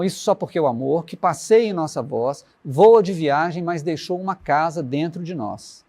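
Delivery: recitação pausada e lenta; letra recitada. Acted. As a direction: dizer a letra como poema, sem pressa. (declamando devagar, com pausas)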